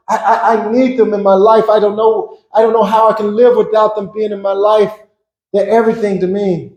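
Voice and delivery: rising, urgent prayer for sister and brother; pleading prayer. Retold or imitated. Man praying not to lose his sister and brother, pleading. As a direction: beg God desperately. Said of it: "I was praying".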